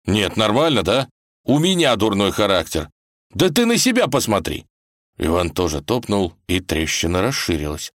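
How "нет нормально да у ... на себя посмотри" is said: raised, affronted comeback; indignant. Acted. Ivan hurls the blame back at the girl, indignant. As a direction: throw the accusation back, climbing higher.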